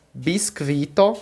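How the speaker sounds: "Biscuito" said slowly, each syllable clear; teacher modelling "Biscuito" slowly; slow careful Esperanto. Shown as a demonstration. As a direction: drag "Biscuito" out for learners. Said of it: "Eu vou só pronunciar cada uma".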